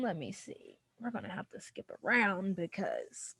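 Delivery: quietly, regrouping through tears. Real, not acted. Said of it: "I'm a cry red mess".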